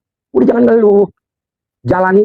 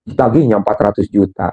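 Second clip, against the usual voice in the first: mock complaining prayer; 7 semitones lower than usual. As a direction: whine to God half in jest. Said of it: "ya tuh ngeluh".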